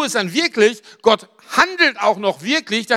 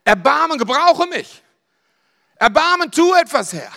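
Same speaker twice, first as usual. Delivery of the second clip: pleading cries building higher and louder; rising plea for mercy, nearly a shout; crying out; 6 semitones higher, 4 dB louder than usual. Retold or imitated. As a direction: call out to the Lord ever more urgently. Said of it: "schreist du".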